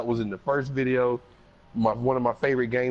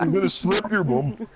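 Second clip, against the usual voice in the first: put-on glasgow street accent; 7 semitones higher than usual. Mock Glasgow street threats.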